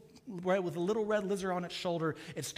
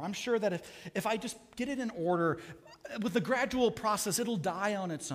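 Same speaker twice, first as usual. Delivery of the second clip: a lightly voiced, anxious ghost, a bit higher and louder; pleading ghost; 4 semitones higher, 3 dB louder than usual. Ghost begs the angel to spare the lizard, anxious and pleading. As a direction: nervously beg him not to.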